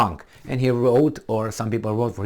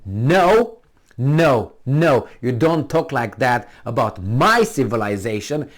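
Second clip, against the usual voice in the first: firm defiant rebuke; slower than usual. Shown as a demonstration. Showing how to defend his civilization, firm rebuke. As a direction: refuse forcefully, then lay down the rule. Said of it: "We'd like this".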